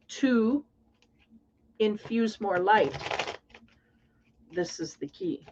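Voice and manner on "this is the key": whispered, much softer; whispered aside. Real, not acted. Reader whispering to herself over the cards. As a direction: breathe it out to yourself.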